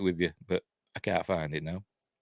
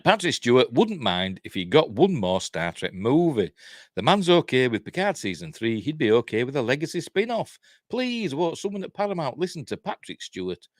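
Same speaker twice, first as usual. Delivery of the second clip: article read-out; 5 semitones higher than usual. Acted. Host reading Star Trek news to viewers, animated read-out. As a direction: read the story out with punch.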